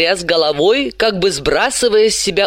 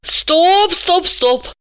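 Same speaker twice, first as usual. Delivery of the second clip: high, sharp repeated stop; protesting; 12 semitones higher, much slower than usual. A narrator's reading. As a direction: cut him off with a raised voice. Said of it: "запротестовала Далила".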